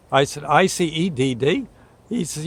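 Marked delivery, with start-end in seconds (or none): 0.4-1.7 quick questioning repeat of I C E D D; puzzled echo. Retold or imitated. Narrator questioning the odd code back to the dispatcher. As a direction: echo the letters back, baffled.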